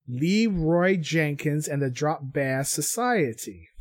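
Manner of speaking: slow, deliberate Aussie reading of the team name; mock Aussie accent. Host retrying the team name in a mock Aussie accent. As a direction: read it again in a careful Aussie accent.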